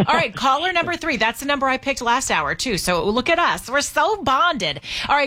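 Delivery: upbeat host calling out the contest winner; radio host announcing the ticket winner to listeners, upbeat announcer read; radio giveaway announcer. Acted. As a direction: sell the prize like a radio host.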